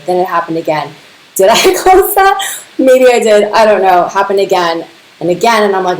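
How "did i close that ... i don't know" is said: high, giggly self-questioning; giggling, half-baffled muttering to yourself; laughing confusion. Retold or imitated. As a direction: laugh through the doubt, pitch way up. Retelling her own confusion, laughing.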